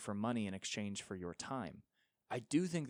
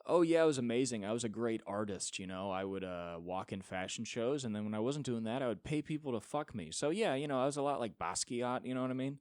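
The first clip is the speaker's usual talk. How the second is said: mock vain model reminiscing; 4 dB louder than usual. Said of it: "go like".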